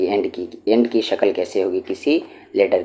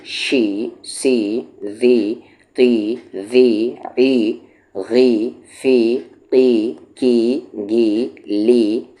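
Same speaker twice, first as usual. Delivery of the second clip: syllable drill; slower than usual. Shown as a demonstration. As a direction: chant each syllable gently for pupils to repeat. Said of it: "teacher drills syllables with ee sound".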